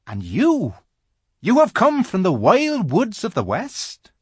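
a nervous little faun asking politely; timid polite faun. A narrator's reading. Faun politely questions the girl, high and fussy.

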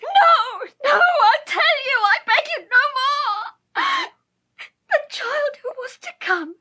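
anguished shriek. Acted. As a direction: beg through pain and sobs. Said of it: "these words in a shriek".

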